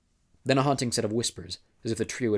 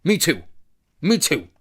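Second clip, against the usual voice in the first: put-on high, loud childish cry; childish whine; 7 semitones higher, 8 dB louder than usual. A narrator's reading. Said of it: "like a child left out of a game".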